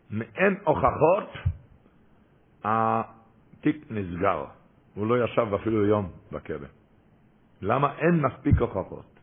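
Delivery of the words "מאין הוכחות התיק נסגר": judge's verdict. Retold or imitated. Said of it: "השופט הכריז".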